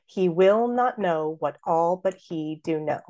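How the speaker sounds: slow, regular da-DUM beat; measured scansion reading; beating out iambs. Shown as a demonstration. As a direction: stress every second syllable. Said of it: "let's beat out".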